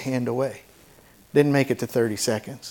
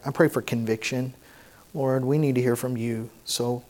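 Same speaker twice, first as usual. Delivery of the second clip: earnest public prayer; 2 semitones lower than usual. Real, not acted. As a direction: pray humbly, letting the voice sink. Leads a prayer before preaching.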